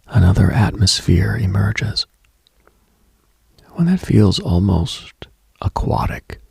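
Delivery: spooky confiding whisper; eerie whisper. Acted. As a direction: whisper it as if underwater. Describing eerie night atmosphere.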